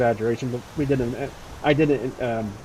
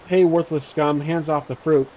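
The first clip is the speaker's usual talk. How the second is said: mild confrontational shout; restrained in-character shout; 3 dB louder than usual. Acted. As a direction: call out a challenge to bandits. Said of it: "walk up to them and shout".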